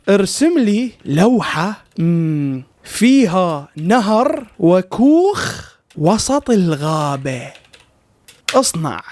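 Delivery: slow, word by word as if typing; dragged out, deliberate typing voice; slow dictation. Shown as a demonstration. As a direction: spell the prompt out slowly to the machine. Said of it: "راح أكتب له".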